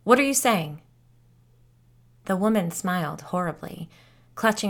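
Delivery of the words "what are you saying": louder, higher sharp question; urgent, high and loud; sharp demand. Acted. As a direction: press her hard for an answer. Biddy confronting Tippy sharply.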